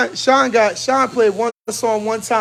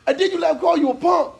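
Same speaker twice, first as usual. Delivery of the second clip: high, laughing mockery; laughing tease; 8 semitones higher than usual. Real, not acted. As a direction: tease him through laughter. Teasing the pastor, laughing.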